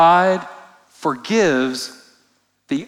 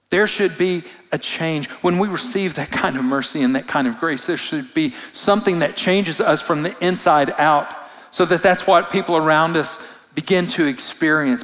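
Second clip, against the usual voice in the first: normal talking voice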